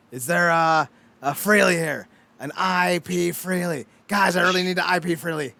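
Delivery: mock prank caller; hammed-up prank phone call; imitating Bart's prank call. Host imitating Bart prank-calling Moe, mock caller. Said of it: "the Simpsons running gag where it's like".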